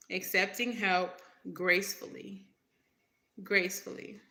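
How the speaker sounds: "gracefully" given deliberate weight both times; emphasis on gracefully. Real, not acted. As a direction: stress "gracefully", set apart after a pause. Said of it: "Emphasis on the gracefully".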